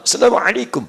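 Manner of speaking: greeting like a native Arab speaker; Arab accent. Shown as a demonstration. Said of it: "kayak orang Arab". (logat Arab)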